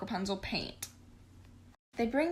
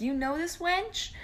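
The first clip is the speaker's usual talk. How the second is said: much higher, slow scandalised question; indignant Stefan; 9 semitones higher than usual. Retold or imitated. Stefan asks the king about Gothel, much higher and scandalised. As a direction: drag it out, scandalised.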